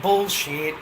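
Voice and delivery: loud mock yell of bullshit; retold angry yell. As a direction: blurt it out loud. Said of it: "I just fucking yelled out".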